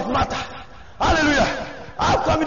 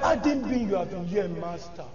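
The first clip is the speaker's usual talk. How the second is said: low, fading, softer to the last word; Martha's grief; 7 semitones lower, 9 dB quieter than usual. Retold or imitated. Preacher voicing Martha to Jesus, low fading grief. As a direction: let it sink away into grief.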